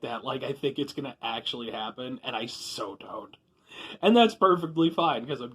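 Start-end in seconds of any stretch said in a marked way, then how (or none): 2.2-3.4 a breathy whispered aside; self-mocking whisper. Real, not acted. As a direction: let it slip out under the breath, slowly. Self-mocking aside about endorsements.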